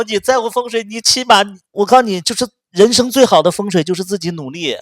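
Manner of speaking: loud, high nonstop scolding; angry rant. Retold or imitated. Berating her ex over his jobless father, loud angry rant. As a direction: tear into him hard. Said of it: "我就咔咔一顿骂".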